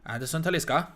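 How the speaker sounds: commentator impression. Friend mimics the game commentator calling the player's name, loud and high. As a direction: belt the name like a football commentator. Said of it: "And he goes, he goes".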